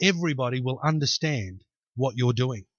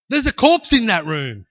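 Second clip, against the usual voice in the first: incredulous jeer; 4 semitones higher, 6 dB louder than usual. Acted. Voicing the mockers' disbelief.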